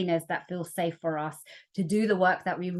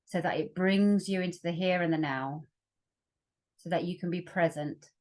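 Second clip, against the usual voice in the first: calm meditation guide, long pauses between phrases; guided meditation. Acted. Facilitator leading workshop listeners into their breath, guided meditation. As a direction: ease them gently inward, leaving room to breathe.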